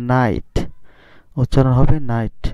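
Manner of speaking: নাইট begun on an N sound, no K; silent K. Shown as a demonstration. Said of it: "কে এর উচ্চারণ হবে না".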